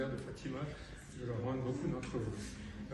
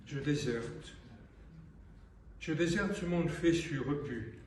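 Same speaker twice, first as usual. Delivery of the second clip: measured poem reading with long pauses between phrases; solemn recital, phrase by phrase; poetry recitation. Acted. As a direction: declaim the refrain, then let each phrase settle.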